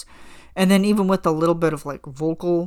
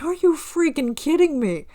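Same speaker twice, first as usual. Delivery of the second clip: much higher, squeaky disbelief; incredulous; 10 semitones higher than usual. Retold or imitated. Realizing the songs match, high incredulous squeal. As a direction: shriek it up high in mock disbelief.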